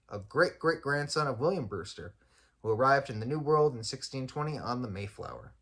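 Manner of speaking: even, projected reading of a written history; read-aloud article. Acted. Podcaster reads the farm's history to listeners, measured read-aloud. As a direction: read it out clearly, phrase by phrase.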